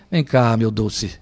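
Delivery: soft, slow loving call; tender father. Shown as a demonstration. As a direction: coax the child gently, slowly. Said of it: "fala carinhosamente". (pai falando carinhosamente, devagar)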